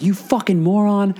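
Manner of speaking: high-pitched mock outrage; imitated angry insult. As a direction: throw the insult high, as the furious lady. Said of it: "now the lady's like".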